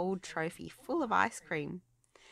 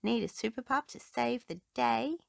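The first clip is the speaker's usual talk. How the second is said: eager pup; 7 semitones higher, 4 dB louder than usual. A narrator's reading. Rubble eager to help.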